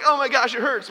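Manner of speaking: very high, loud comic complaint; hammed-up squeal of pain; mock pained cry. Dad acts nose being squeezed.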